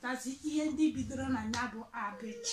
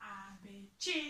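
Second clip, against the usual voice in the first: teacher call; 5 semitones lower, 7 dB quieter, much slower than usual. Shown as a demonstration. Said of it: "m na-agụ, na-esoro m na-agụ".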